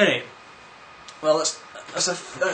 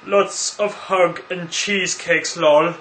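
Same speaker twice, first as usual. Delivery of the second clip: slow, put-on reading voice; read-out sign-off; 4 semitones higher, 5 dB louder, slower than usual. Reads a commissioner's message aloud, slow put-on voice. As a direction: read it out slowly and deliberately.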